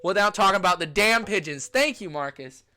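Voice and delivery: loud, high, emphatic declaration of love; gushing excitement. Real, not acted. Traveler declares love of pigeons to friend, gushing excitement. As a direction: gush loudly, leaning on the words. Sudden passionate rant about pigeons.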